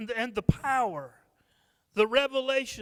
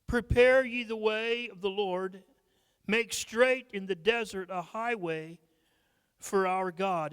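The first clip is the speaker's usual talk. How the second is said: measured, solemn reading of the verse; a preacher reading Isaiah to the church; scripture reading; 3 dB louder than usual. Acted. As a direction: read it like scripture from the pulpit. Reads scripture aloud.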